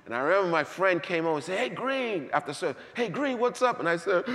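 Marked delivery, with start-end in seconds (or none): 1.6-2.3 friend calling out. Retold or imitated. Friend greets him after service. 2.9-3.8 high, laughing "hey, Green"; a breezy laugh as he asks; cheery friend greeting. Retold or imitated. The friend greeting him after service, cheery and laughing.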